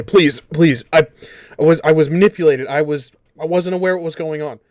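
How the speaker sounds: high, fast pleading hiss; hissing lizard voice. Acted. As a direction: beg like a cornered lizard. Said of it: "speaking out in a hissing voice".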